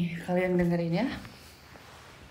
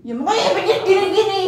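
high, loud laughing reply; 10 semitones higher, 8 dB louder than usual. Real, not acted. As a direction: laugh while you answer. Laughing while scolding. (sambil tertawa)

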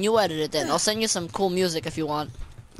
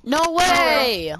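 sarcastic; 7 semitones higher than usual. Real, not acted. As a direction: pretend to be thrilled. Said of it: "That was sarcastic".

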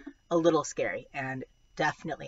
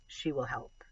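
whispered; 4 dB quieter than usual. A narrator's reading. Hopeful quiet resolve.

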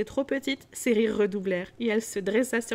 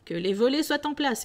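hearty cry; 4 semitones higher, 4 dB louder than usual. Acted. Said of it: "cria le vieux Fezziwig".

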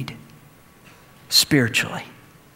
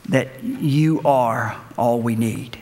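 prayer; 4 semitones lower, much slower than usual. Real, not acted. Closing prayer.

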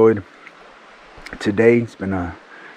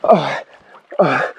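cold gasps; 2 semitones higher, 4 dB louder than usual. Real, not acted. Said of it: "it's so cold".

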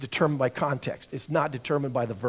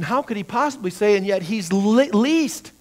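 incredulous; 4 semitones higher, 5 dB louder than usual. Pretend. Teacher voicing an incredulous objection.

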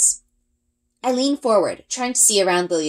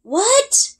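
high, loud shouted what; shouting; 3 dB louder than usual. A narrator's reading. Girl shouting back to Ari in wind, loud. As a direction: yell back, straining to hear. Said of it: "I shout back".

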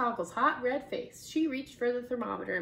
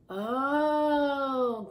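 groan; 4 semitones higher, 5 dB louder than usual. A narrator's reading. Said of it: "groaned the children".

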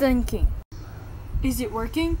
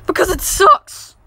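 louder blunt retort; defiant shout; 6 dB louder than usual. Acted. Boy yelling back at his dad, defiant and loud. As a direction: throw it back at him.

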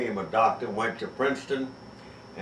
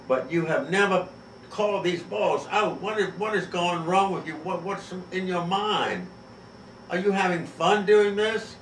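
much higher, indignant questioning; exasperated friend; 8 semitones higher than usual. Retold or imitated. The guest scolding his host over calls, high and incredulous. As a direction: pile on the disbelief at every bad call.

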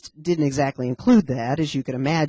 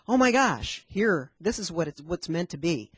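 amazed realization. Retold or imitated. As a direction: gasp it out like a revelation. Acted sudden realization.

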